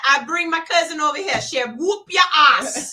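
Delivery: lightly acted tough nurse daring the patient; threatening young caregiver. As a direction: dare them with mock menace. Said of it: "talking to one of these".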